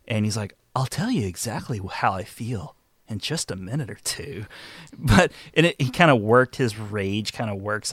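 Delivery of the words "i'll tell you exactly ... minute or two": calm and sarcastic. Retold or imitated. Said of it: "calm and sarcastic".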